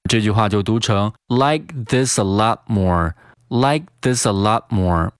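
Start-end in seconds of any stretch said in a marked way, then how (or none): 1.3-5.1 "lot more" with the t held silent; "like this a lot more" joined, no t burst; unreleased T. Shown as a demonstration. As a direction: link "this a", stop the t of "lot". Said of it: "失去爆破的处理".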